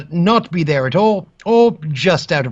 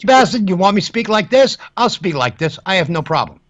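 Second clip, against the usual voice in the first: lightly attempted American accent; a passable go at an American accent; 2 semitones higher than usual. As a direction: put on an American accent to show you can. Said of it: "is that a good American accent".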